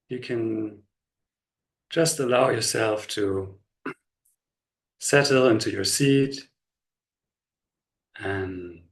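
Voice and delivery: slow, unhurried body-scan guidance with long pauses; measured meditation voice, leaving space after each instruction; guided meditation. Real, not acted. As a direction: guide them gently into relaxation, phrase by phrase.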